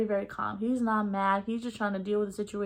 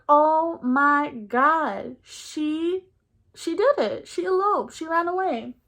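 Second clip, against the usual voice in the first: high, loud panicked gasp of shock; imitating her own panic, voice shooting up; panicked realization; 6 semitones higher, 4 dB louder, much slower than usual. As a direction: shriek it out as it dawns on you. Realizing cousin eloped, panicking.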